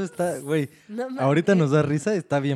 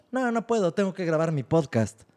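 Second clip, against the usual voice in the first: mocking, teasing put-on tone; 2 semitones higher than usual. Speaker retells how another guy mocked him about his podcast, retelling a mocking tone. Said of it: "diciéndolo en tono de burla".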